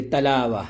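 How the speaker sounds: "تلاوہ" with a thin T where a heavy one belongs; unthickened misreading. Shown as a demonstration. Teacher showing a learner's mistake, thin T in "تلاوہ". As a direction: misread it as "تلاوہ", first letter left light. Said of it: "تا کی آواز کو موٹا کر کے پڑھنا نہیں آتا".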